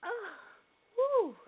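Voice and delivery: sneezing. Real, not acted. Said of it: "I had a sneezing fit".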